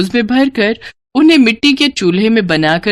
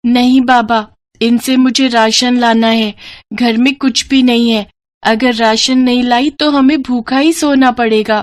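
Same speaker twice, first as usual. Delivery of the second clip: put-on higher little girl's voice, pleading; a small girl begging her father to let her keep it; 4 semitones higher than usual. Little girl pleading with her drunk father, higher voice.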